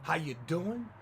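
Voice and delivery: imitating an over-eager greeting; mock effusive welcome; effusive courtesy. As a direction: gush politely, as a fawning server would. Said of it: "Never such effusive courtesy".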